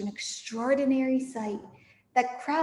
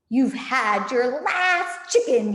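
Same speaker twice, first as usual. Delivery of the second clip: mock yell; 5 dB louder, slower than usual. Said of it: "yelled Bogus".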